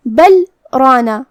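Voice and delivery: بل رانا with a short stop after بل and no breath; saktah pause. Shown as a demonstration. Teacher demonstrates the breathless saktah stop. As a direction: pause briefly on بل, then go straight on to رانا. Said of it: "بغیر اپنی سانس لیے کلمت رانا پڑھیں گے".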